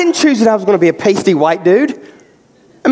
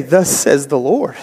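low, slow and weighty; solemn proclamation; 9 semitones lower, slower than usual. Acted. Pastor describing his pulpit duty, a solemn slow proclamation. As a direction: intone it like scripture from the pulpit. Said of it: "I get to stand up here and I get to say".

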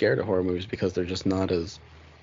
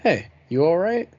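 caring check-in; 6 semitones higher, slower than usual. Retold or imitated. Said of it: "just come up to me and go".

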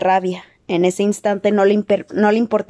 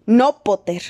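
shouted warning; slower than usual. A narrator's reading. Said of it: "gritó Snape".

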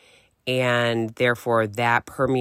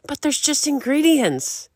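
high whiny mock kid voice, a bit louder; 4 dB louder than usual. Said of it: "You're like".

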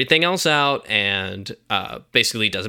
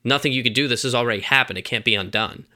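lightly voiced Christopher Walken. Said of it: "Christopher Walken's like".

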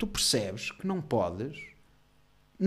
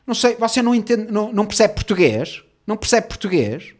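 loud, high mock scolding; rude clerk; 7 semitones higher, 9 dB louder than usual. Clerk turning on a client, loud and condescending. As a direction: imitate a clerk snapping at a client. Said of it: "a certa altura virou-se para mim".

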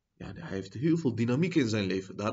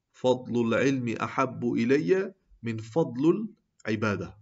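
recitation. Acted.

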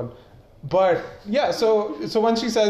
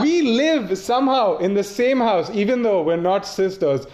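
incredulous rant; 4 semitones higher than usual. Pretend. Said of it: "I would have been like".

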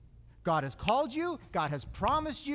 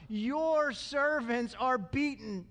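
slow, mock pitiful plea; plaintive, sucking-up complaint; whiny; much slower than usual. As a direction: draw it out to win sympathy. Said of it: "how they're kinda whiny".

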